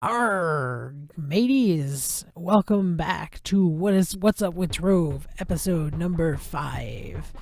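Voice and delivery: slow growly pirate intro. Pretend. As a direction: ham it up like a pirate captain. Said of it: "Pirate voices".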